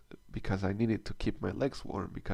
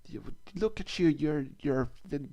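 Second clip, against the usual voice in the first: retold yelling; 5 semitones higher than usual. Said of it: "started yelling at the kid".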